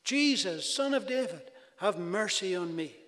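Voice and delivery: earnest preacher's cry for mercy; pleading cry. Retold or imitated. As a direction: call out to Jesus like a desperate blind beggar. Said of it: "he cried out".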